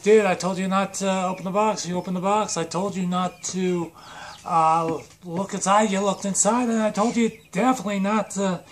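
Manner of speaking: hammed-up "I told you so" rant; exasperated tirade. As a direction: list each offence in mounting mock outrage. Friend berates him over every warning.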